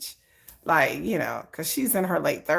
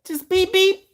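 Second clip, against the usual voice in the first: giggling; 12 semitones higher, slower than usual. Real, not acted. Joking about heading to sixty.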